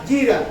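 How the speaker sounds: "gira" with the accent on its last A; stress on final syllable. Shown as a demonstration. Preacher spelling out the Hebrew word, "gira" stressed on final A. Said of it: "con acento en la".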